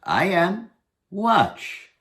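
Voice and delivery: high mocking challenge; cocky Herschel. Herschel mocks the little goblin, high cocky taunt. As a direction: tease him, raise the voice high.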